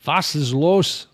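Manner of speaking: slow, loud, hammed-up guttural German; mock German. Vlogger mocking how German sounds, exaggerated guttural German. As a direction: spit out the German harshly and slowly. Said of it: "spitting up loogies".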